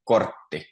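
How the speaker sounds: kortti with a strong, clearly sounded R; teacher's model of kortti, R pronounced strongly. Shown as a demonstration. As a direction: lean on the R in kortti. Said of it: "the R is quite strong".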